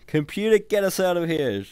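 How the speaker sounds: high, loud urgent shout. A narrator's reading. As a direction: yell it at the ship. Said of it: "shouted Hans".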